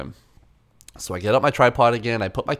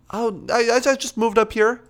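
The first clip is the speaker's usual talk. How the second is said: put-on old photographer; 11 semitones higher than usual.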